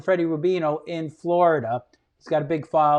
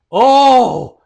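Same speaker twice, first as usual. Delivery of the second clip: sudden louder, higher cry of panic; mock alarm, loud and raised; 5 semitones higher, 10 dB louder than usual. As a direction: blurt it out as trouble strikes. Sudden urgent bowel panic.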